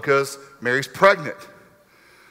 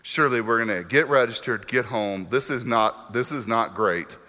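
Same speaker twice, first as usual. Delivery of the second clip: quiet worried thoughts; 11 semitones lower, 7 dB quieter than usual. Retold or imitated. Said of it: "you're thinking".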